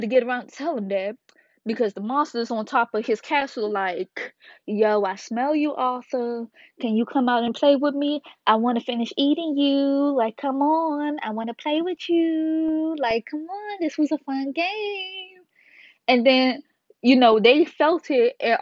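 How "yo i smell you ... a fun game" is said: taunting monster. Retold or imitated. The monster cat taunting Arthur from the castle, high and teasing. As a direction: tease him like a cat toying with prey.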